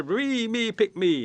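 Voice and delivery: high-pitched, keen pleading; eager volunteer. Acted. Animal volunteers to Bear for the fire, eager high plea. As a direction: pipe up begging to be chosen.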